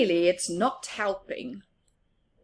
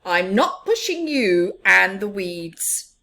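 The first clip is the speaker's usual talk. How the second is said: indignant; 9 dB louder than usual. Acted. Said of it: "said Big Mouse indignantly".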